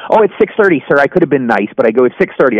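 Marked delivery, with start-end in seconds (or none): 0.1-1.0 friendly, higher and courteous; the nice way to answer a stranger asking the time; polite and nice. Shown as a demonstration. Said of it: "I could go". 2.0-2.6 short and abrupt, lower; curt. Retold or imitated. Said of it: "I was kind of abrupt".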